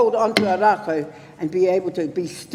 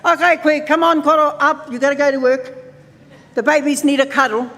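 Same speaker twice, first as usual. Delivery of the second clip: raised, higher wake-up call; rousing the elders; 4 semitones higher, 3 dB louder than usual. Acted. Helper rousing kuia and koro to work, rousing call. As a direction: coax them up, a little louder. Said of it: "going over there in the morning and saying".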